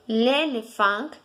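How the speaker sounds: L'éléphant slowly, nasal final; slow repeat. Shown as a demonstration. Teacher repeating L'éléphant slowly for students. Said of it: "se pronuncia".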